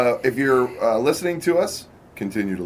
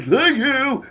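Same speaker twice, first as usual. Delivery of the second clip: higher, louder sing-song thank you; put-on voice; 14 semitones higher, 6 dB louder than usual. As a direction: sing the thanks out at her as she walks away. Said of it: "I was like".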